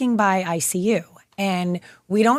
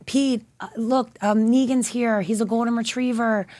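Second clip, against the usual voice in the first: tender; 3 semitones higher than usual. Retold or imitated. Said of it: "just saying".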